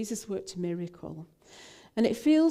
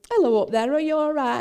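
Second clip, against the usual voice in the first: loud, high friendly hail; shouting up; 7 semitones higher, 9 dB louder, faster than usual. Retold or imitated. Police officer to people up the embankment, shouting up. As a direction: call out loudly to someone high above. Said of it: "he shouted up".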